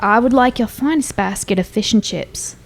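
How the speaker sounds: put-on English accent. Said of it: "I don't know that I can outdo that".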